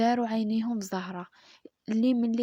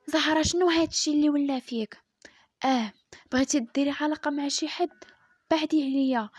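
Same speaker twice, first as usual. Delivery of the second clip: raised, louder accusing voice; angry scolding; 4 semitones higher, 4 dB louder than usual. Acted. Husband confronts Zahra, raised and angry. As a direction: scold her hotly, voice pitched up.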